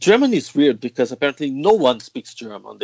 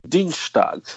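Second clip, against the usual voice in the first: Dienstag in a Bavarian accent, pitched up; Munich accent; 4 semitones higher than usual. Shown as a demonstration. Guest showing her days of the week, Munich accent. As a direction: say Dienstag as they would in Munich. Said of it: "the accent from Munich when I say".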